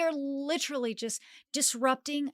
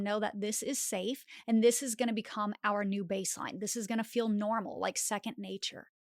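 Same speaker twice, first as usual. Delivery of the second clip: gentle encouraging reassurance; reassuring inner voice; 3 dB quieter than usual. Acted. Intuition reassuring the nervous self, gentle and encouraging. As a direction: soothe yourself like a kind friend. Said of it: "intuition that is saying".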